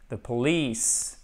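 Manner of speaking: "police" slow, stress on the long second syllable; "police" with a drawn-out, falling second syllable; stressed syllable demo. Shown as a demonstration. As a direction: stretch the "lice" of "police". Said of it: "Et là, on a l'accentuation".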